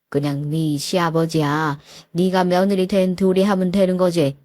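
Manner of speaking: calm her down like a patient dad; soothing father. Retold or imitated. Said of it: "달래시더군요".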